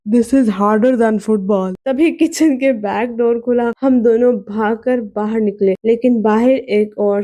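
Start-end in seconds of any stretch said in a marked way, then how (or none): 0.1-1.7 slow, careful English in a different voice; Ronaldo, gently. A narrator's reading. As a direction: lay it out slowly, stunned. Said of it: "वो बोला".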